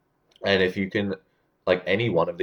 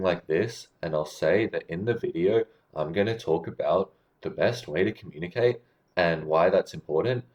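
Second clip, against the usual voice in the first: each phrase ends rising, as on "important"; upswing. Shown as a demonstration. Coach mocking uptalk, "important" swinging up like a question. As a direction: lift "this", "video" and "important" like questions. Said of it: "ending the sentence like you're asking a question".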